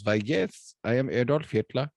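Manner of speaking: lightly voiced old man with a German accent; a hint of a comic German dictator; joke-teller's mild German accent; Adolf Hitler. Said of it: "this little old man with the funny mustache".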